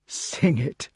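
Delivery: put-on gasped out by an old man; breathy, barely able to speak; breathless old person. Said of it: "gasped the old man".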